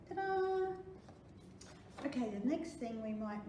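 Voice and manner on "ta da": high, pleased presentation; showy ta-da. Pretend. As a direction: present it like a magic trick. Showing finished bag.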